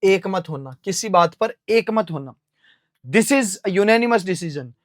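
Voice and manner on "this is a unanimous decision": slow and even, word by word; slow example sentence. Shown as a demonstration. Teacher dictating an example sentence slowly to students. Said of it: "giving an example sentence".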